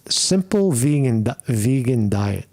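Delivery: tripping over the words, restarting; stuttering. Real, not acted. Vlogger stumbling over diet advice to viewers, real stutter. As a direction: stumble and restart mid-word. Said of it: "Excuse me, I'm stuttering".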